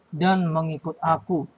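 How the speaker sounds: dan mengikut aku read slowly, each word spaced; slow the words dan mengikut aku right down for the children; measured reading pace; slow, deliberate reading. Shown as a demonstration. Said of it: "Sekali lagi Bapak baca".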